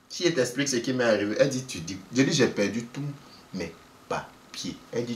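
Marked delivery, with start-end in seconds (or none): 2.3-4.8 much softer, slow and low; slow, sheepish low mumble. Retold or imitated. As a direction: mumble it out ashamed. Confessing lost papers.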